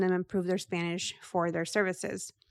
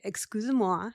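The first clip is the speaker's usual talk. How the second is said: repeating French. Shown as a demonstration. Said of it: "And then you repeat it".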